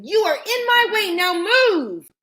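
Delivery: put-on high, loud and insistent girl. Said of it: "said Usha louder this time".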